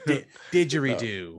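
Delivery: hammed-up Aussie word; badly faked Australian accent; silly mock-Australian delivery. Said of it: "a bad Australian accent at best".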